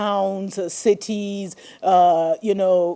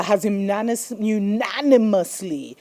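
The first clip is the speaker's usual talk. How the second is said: real stumble, then a careful retry; tongue-tied. Real, not acted. Host announcing the approved reparations vote, tongue-tied. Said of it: "I'm getting tongue-tied today".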